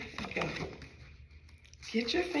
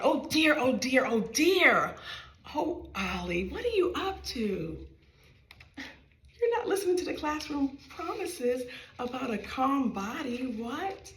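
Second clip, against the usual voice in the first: crumbly voice; 3 semitones higher than usual. Acted. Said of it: "asked in a crumbly voice".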